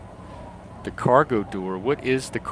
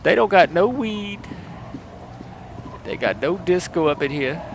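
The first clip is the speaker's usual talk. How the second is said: high-pitched mock voice-acting demo; Black character impression; 6 semitones higher than usual. Streamer auditioning for a Black role, high and animated. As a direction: put on an animated, raised character voice. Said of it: "I still think they need a black person".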